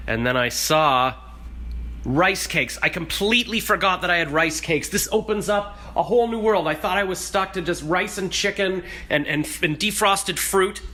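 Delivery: high, loud, rushing with delight; giddy excitement. Real, not acted. Excited rice cake discovery.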